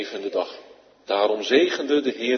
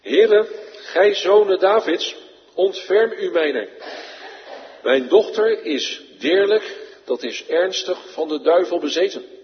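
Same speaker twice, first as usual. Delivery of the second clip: a mother begging for her daughter, crying out; crying out to him; 7 semitones higher, 5 dB louder than usual. Acted. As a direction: plead desperately, calling out. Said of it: "riep tot hem".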